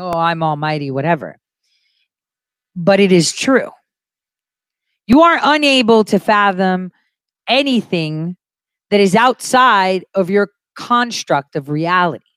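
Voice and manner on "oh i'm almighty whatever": sarcastic delivery in a lower pitch. Quoting how a man put it in a very sarcastic way: retelling a sarcastic remark. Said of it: "he actually says it in a very sarcastic way".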